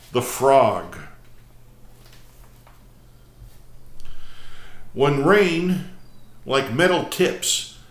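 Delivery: measured, emphatic prose-poem recital; poetry reading. Acted. Host reads a prose poem to viewers, measured recital. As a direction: read it out phrase by phrase with deliberate pauses.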